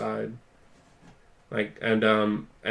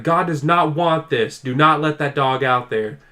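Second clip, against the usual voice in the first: mock righteous command, pitched up at first; imitated yelling; 3 semitones higher, 3 dB louder than usual. Imitating a son ordering his parents about the dog, mild yelling. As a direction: deliver a retold furious order, easing slightly. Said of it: "he's yelling at them".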